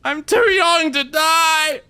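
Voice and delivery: attacked by the monster, screaming in terror; terrified screaming. Real, not acted. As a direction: scream as he's being hurt. Being attacked in game.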